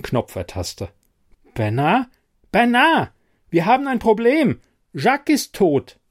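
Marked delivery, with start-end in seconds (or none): 2.5-3.1 much higher and louder, a desperate call; urgent shout. A narrator's reading. No answer on the radio, shouting for Bernard. Calling colleague over radio. 3.5-6.0 high, loud and frantic; panicked shout. A narrator's reading. Reporting the dead colleague over the radio, panicked shouting.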